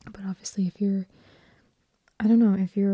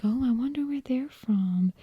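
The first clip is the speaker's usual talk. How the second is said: higher-pitched Southern accent, curious; Nancy; 4 semitones higher than usual. Shown as a demonstration. Imagining people hearing Nancy, higher Southern accent. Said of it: "if I spoke like this, like Nancy".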